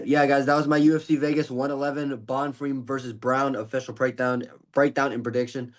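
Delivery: slightly winded wrap-up; out of breath. Real, not acted. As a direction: talk a little out of breath. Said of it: "I'm out of breath".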